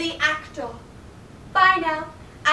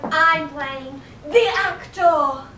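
pompous; much slower than usual. Acted. Pompous self-important actor.

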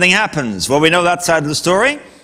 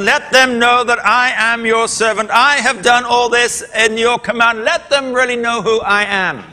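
raised, insistent declaiming, higher in pitch; self-important prayer; 4 semitones higher than usual. Shown as a demonstration. Elijah's first prayer, wanting some glory, self-important prayer. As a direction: proclaim it high, pressing your own standing. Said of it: "notice the difference in Elijah's prayers".

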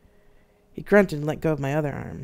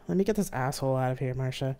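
gently. Acted. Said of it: "they said gently".

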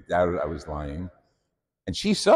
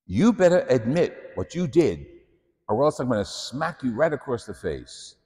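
raised higher, half-shouted threat from an angry nun; retold nun yelling; 5 semitones higher than usual. Nun yelling at the boy, higher pitched and sharp. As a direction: bark the threat like a furious teacher. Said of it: "she heard Pasqualina yelling at me".

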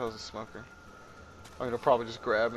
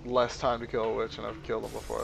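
ordinary delivery

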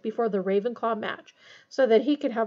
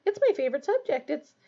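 higher-pitched earnest enthusiasm; 5 semitones higher than usual. A narrator's reading. Hermione defending arithmancy to Harry, earnest. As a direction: gush sincerely, pitched up. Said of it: "said Hermione earnestly".

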